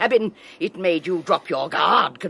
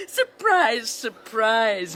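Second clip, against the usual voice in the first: triumphant high cackle into "surprise"; gloating laugh; 4 semitones higher, much slower than usual. Acted. Henrietta exposing the lovers, laughing in triumph. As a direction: relish catching them out. Henrietta springs her trap.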